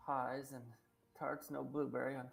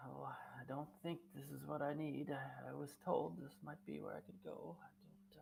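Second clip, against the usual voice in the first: quieter, slower muttering under breath; 4 dB quieter than usual. Speaker demonstrating browsing shop shelves so he can overhear: talking to oneself. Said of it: "kind of talking to myself, but loud enough".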